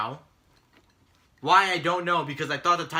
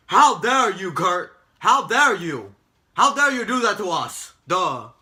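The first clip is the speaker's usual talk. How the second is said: higher, louder mock indignation; hammed-up outrage; 4 semitones higher, 8 dB louder, slower than usual. Mocking the wrestlers confronting Kurt, hammed-up outrage. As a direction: play it as an overblown wrestler's tantrum. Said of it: "they're like".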